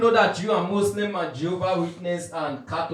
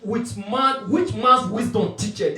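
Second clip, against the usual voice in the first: raised, emphatic recitation, stretched at the start; scripture preaching; 3 semitones higher, 5 dB louder, slower than usual. Real, not acted. Preacher returning to the verse to correct believers, scripture preaching. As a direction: hammer the opening words of the verse.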